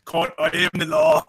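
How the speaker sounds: put-on a self-admitted weak Australian accent. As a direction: try an Australian accent and fall short. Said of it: "I can't do an Australian accent".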